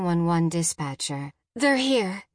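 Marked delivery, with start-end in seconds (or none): 1.5-2.2 high, breaking-the-news blurt; anxious, higher-pitched report; urgent rush. A narrator's reading. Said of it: "she said in a rush".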